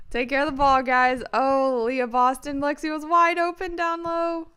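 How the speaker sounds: exasperated yelling. Real, not acted. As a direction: yell at the screen in frustration. Frustrated fan yelling at players.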